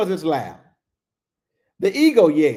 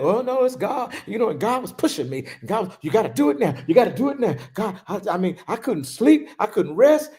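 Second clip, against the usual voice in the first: higher, pressed, hurried self-talk; mock anxious believer; 4 semitones higher, faster than usual. Preacher imitating a congregant who feels pushed, a touch frantic. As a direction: act out the restless believer, rushing. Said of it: "You think".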